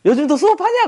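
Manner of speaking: hammed-up brash holler at old teacher; cocky shout. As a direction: call out across the street, smug and careless. Same brash ex-student shouting.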